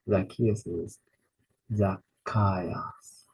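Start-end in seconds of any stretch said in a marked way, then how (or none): 1.7-3.2 whispered repeat. Shown as a demonstration. Teacher whispering "Zacchaeus" as a contrast. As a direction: breathe "Zacchaeus". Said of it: "whispered repeat".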